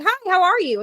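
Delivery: high, perky hello; upbeat, chirpy drive-thru welcome; cheery greeting. Retold or imitated. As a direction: greet the customer like a friend. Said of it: "how cheery I sound".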